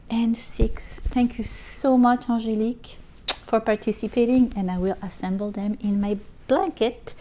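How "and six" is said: whispered. Real, not acted. Counting squares.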